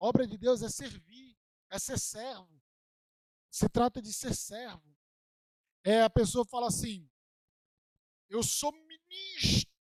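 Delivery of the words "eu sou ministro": emphatic delivery, words strongly and heavily stressed. Imitating someone who announces his own title with emphasis: imitating an emphatic delivery. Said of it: "até dá uma ênfase assim".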